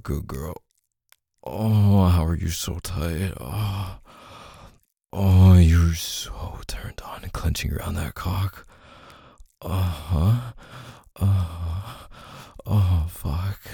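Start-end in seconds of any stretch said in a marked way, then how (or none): 5.1-8.7 slow, unvoiced lover's whisper. Lover murmuring to partner, slow whisper. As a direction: draw it out in a breathy whisper. Intimate roleplay, whispered line.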